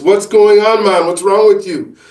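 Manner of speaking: put-on amateur Caribbean accent, friendly and concerned; mock Caribbean accent asking what's wrong; bad Caribbean accent. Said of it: "obviously my accent's terrible".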